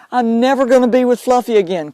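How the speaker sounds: acting out a grieving owner's hopeless moan; mock negative crying. Medium mocks a pet owner's negative crying, mildly whiny. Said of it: "Negative cry".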